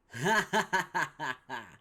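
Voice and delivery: loud real laugh; burst of laughter. Real, not acted. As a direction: break into laughter. Laughter breaks in.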